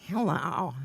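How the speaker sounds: leering, falling greeting; creepy Ronnie. Retold or imitated. Ronnie practicing on a woman in group, creepy greeting. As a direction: imitate a badly misjudged flirtatious hello. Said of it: "That's disgusting".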